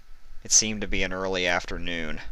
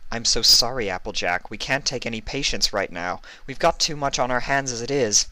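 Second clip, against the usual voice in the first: lightly voiced, higher nurse; apologetic nurse; 5 semitones higher than usual. A nurse refuses Applejack, lightly voiced and apologetic. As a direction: turn her away gently.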